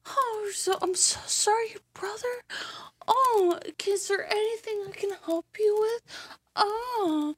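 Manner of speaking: high, teary hammed-up condolence; mock sympathy. Mocking condolences to a grieving politician, high and teary. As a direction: fake a weepy comforter.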